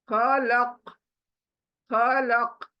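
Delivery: खलक with the final k doubled; pausal stop. Shown as a demonstration. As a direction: repeat खलक, closing on a doubled k. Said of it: "काफ double होगी".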